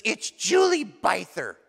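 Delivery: slow, lightly put-on girl at the door; lightly voiced girlfriend. Girlfriend announces herself at the door, lightly mimicked. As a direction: draw out the name as a mock visitor.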